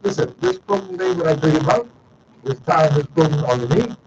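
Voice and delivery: high, put-on voice for a quoted speaker; playful high impression of a caller; acted quote. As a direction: pitch way up to play the other person. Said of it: "You say".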